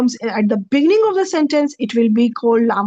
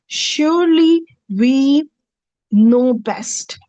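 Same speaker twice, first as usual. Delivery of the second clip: SURELY drawn out, raised, then a pause before "know best"; slow emphatic translation; much slower than usual. Shown as a demonstration. Teacher slowly translating the verse for students, drawn-out stress. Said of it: "La nahnu a'lamu".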